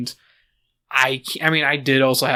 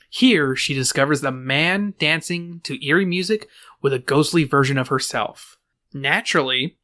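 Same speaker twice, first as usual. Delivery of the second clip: measured presenter's read with lifted key words; podcast plot-summary voice; scripted narration. A narrator's reading. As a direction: read out a prepared movie synopsis. Reads a prepared film synopsis.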